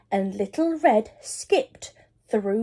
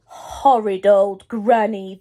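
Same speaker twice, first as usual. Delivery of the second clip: growl; 5 dB louder, slower than usual. Acted. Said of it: "the wolf growled".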